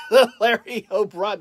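slow, loud attempt at a Boston accent; stumbling mock Boston accent. Showing the trophy patch, halting Boston accent. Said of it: "try to say it with a Boston accent".

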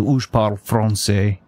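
"français" with the R rolled at the front of the tongue; local French. Shown as a demonstration. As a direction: tap the R of "français" on the tip of the tongue. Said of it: "you roll at the front of the tongue".

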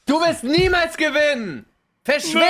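villain taunt. Pretend. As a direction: gloat like a cartoon villain. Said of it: "du musst jetzt so sagen".

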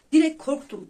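recalling the scare, voice jumping up; retold fright. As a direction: blurt it out as if startled again.

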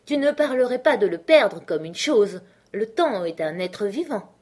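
high, loud, emphatic character voice; lecturing Hatter. Acted. Hatter explains Time to Alice, emphatic and loud.

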